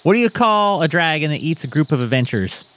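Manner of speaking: high, lilting fake Irish; mock Irish accent. Leprechaun telling Colin a joke, in mock Irish accent. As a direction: tell it in a put-on Irish brogue.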